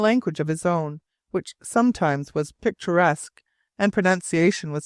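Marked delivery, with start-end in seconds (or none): none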